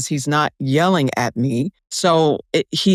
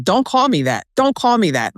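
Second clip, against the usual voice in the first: raised pitch, mild mock indignation; imitating angry ex; 6 semitones higher than usual. Woman quoting her ex objecting to his nickname, mock angry. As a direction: mimic his touchy protest, pitched up. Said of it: "he would get angry at that".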